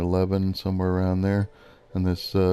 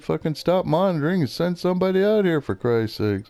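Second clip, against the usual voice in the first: retold angry demand; 8 semitones higher than usual. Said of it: "and I'm pissed".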